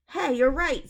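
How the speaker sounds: high, loud sudden realization; excited cry. A narrator's reading. Zeke realizing the door pulls open, loud excited cry. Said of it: "Zeke cried".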